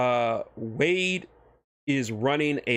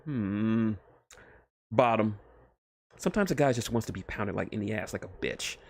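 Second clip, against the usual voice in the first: cheeky Deadpool; 2 semitones higher than usual. Acted. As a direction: savour each crude thought. Deadpool muses crudely.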